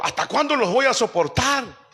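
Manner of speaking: a weary master, fed up but loving; exasperated rebuke. Acted. Jesus rebuking faithless disciples, exasperated plea. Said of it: "el Señor entonces se enoja".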